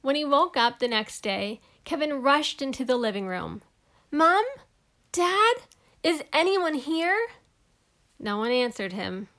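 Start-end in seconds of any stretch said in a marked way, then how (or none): 4.1-7.3 higher, louder calls through the house; calling out. Acted. Kevin calling through the empty house, high and loud. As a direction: call for Mom and Dad.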